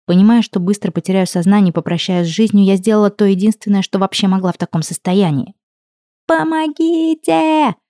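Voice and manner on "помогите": high, drawn-out scream for help; loud cry for help. A narrator's reading. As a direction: yell it out desperately. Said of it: "заорала громко".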